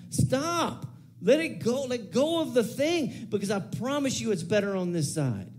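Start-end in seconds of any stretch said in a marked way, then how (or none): 0.1-3.3 urgent plea. Real, not acted. Preacher to congregation, high pleading urgent command. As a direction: urge them hard to let it go.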